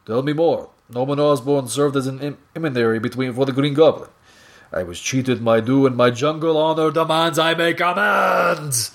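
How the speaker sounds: a hint of a hammed-up jungle hunter; Kraven voice. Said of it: "He's like".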